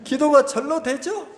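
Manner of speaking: teasing laugh. Retold or imitated. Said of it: "이러시는".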